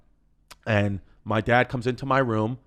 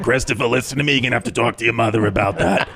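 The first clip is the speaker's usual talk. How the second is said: lightly voiced New York aunt; a hint of a weary smoking lady; old-school New York lady; 3 semitones lower, 4 dB louder than usual. Smoking aunt fobs off her nephew, lightly voiced New York lady. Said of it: "old school New York lady smoking a cigarette".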